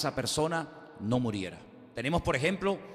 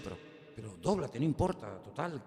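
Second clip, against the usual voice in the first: softer, coaxing murmur; a hushed voice urging them to just bow; hushed tempting aside; 4 semitones lower, 6 dB quieter than usual. Retold or imitated. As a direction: coax quietly, half under the breath.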